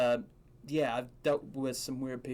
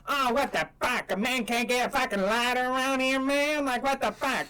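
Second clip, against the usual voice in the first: mock angry rant; 7 semitones higher than usual. Stranger storming off, higher mock rant. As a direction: play the stranger ranting about no lighter. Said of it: "And he goes".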